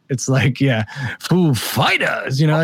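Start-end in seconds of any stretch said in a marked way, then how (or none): 1.2-2.4 slow drawn-out Walken-style band name; Christopher Walken impression. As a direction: stretch it slowly like Walken, badly. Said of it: "that was terrible, that one I just did".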